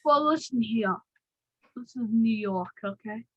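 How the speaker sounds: attempted tough New York accent. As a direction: put on your best New York accent. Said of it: "I'm trying to do my best accent".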